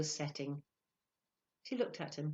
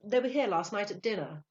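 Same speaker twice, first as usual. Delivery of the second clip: confident, higher, louder statement; breezy explanation to a waiter; casual enquiry; 4 semitones higher, 7 dB louder than usual. A narrator's reading. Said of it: "he inquired casually".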